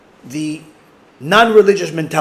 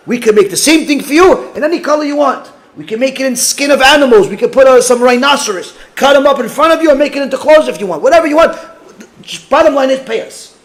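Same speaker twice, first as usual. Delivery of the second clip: lightly voiced eager seller, higher and louder; pushy shopkeeper; 6 semitones higher, 4 dB louder than usual. Clothing seller courts a customer, eager and loud. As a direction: sell hard, anything goes.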